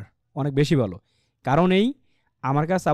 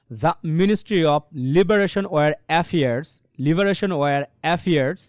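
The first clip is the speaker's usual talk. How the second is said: slow, stress on Liberation and Affairs; stressed reading; 3 dB louder, much slower than usual. Shown as a demonstration. Teacher reading the sentence for students. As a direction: push the stressed words slowly. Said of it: "অফের উচ্চারণটা খুব slow হয়ে যাবে".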